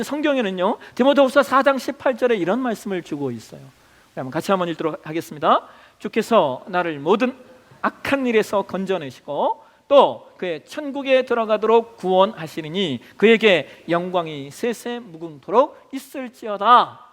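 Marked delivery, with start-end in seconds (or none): 6.0-17.0 slow, solemn Bible reading; measured liturgical recitation of scripture. Acted. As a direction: read the verse slowly and reverently, as in church. Reads scripture aloud together.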